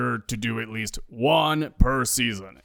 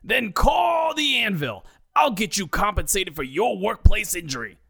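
put-on Brooklyn accent; 10 semitones higher than usual. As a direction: bellow it like a Brooklyn TV ad. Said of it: "in his heavy Brooklyn accent".

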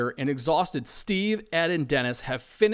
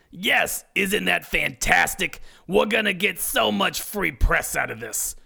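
bragging; 3 semitones higher than usual. Acted. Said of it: "brags Debbie".

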